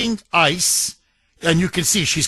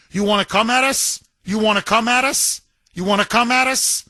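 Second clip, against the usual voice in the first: taunting; 3 semitones higher, faster than usual. Retold or imitated. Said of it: "she's taunting him".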